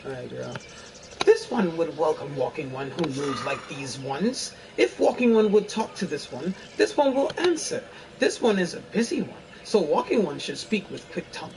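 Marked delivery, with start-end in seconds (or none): 1.2-11.5 lightly voiced fairy; a hint of an airy fairy. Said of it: "my best fairy voice".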